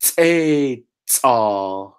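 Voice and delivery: teital said nice and slow. Shown as a demonstration. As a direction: slowly sound out teital. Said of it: "nice and slow".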